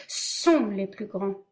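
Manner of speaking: slow, fearful correction; terrified. Acted. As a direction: catch yourself in terror. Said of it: "se reprenant avec terreur".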